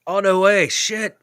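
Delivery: high, loud burst of surprise; surprised. Real, not acted. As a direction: caught off guard, blurt it out. Reacting to Ronaldo news.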